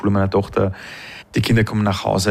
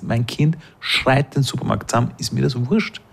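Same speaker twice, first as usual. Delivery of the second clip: normal talking voice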